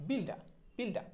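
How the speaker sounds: বিলডা with open "daa" ending, no r; corrected pronunciation. Shown as a demonstration. Teacher drilling builder with learners, বিলডা ending in open আ. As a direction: drop the r at the end of বিলডা. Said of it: "উচ্চারণটা হবে হচ্ছে".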